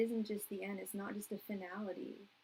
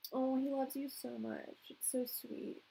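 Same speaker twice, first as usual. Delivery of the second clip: higher, tender cooing; touched, watering up; 4 semitones higher than usual. Real, not acted. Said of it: "really watering up".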